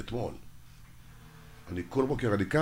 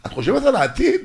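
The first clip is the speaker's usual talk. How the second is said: much higher and louder hammed-up scolding; mock exasperated shout; 11 semitones higher, 9 dB louder than usual. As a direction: yell at mother to stop worrying, half joking. Mock scolding his old mother. (צעקה מבודחת על האמא, גבוה וחזק)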